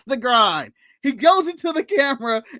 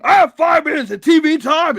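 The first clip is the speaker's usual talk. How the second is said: lightly voiced groggy Englishman; groggy mock Ospreay; 5 dB louder than usual. Podcaster mimics Will Ospreay on camera, groggy voice. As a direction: slur it like a groggy Brit. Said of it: "it's very groggly".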